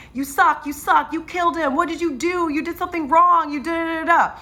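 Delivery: high-pitched mocking self-blame voice; panicked inner critic. Voice in her head as patient codes, mock panicked scolding. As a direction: rattle off accusations as a squeaky inner voice. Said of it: "in my head".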